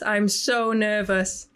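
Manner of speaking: stretched-out nervous words; slow, drawn out; slow nervous drawl. Real, not acted. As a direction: drag it out slowly.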